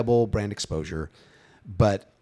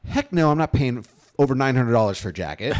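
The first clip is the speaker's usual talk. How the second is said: indignant refusal; 3 semitones higher, 4 dB louder than usual. Retold or imitated. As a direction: balk loudly at the price. Acting out reaction to the price.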